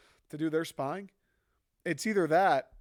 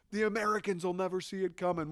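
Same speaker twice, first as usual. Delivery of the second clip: higher, hammed-up gloating; mock smug plotter; 4 semitones higher than usual. Chinese planners gloating over balloon, mock smug.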